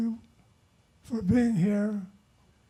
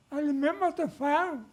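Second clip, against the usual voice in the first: mock Chinese accent; 4 semitones higher than usual. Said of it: "The Chinese guy says".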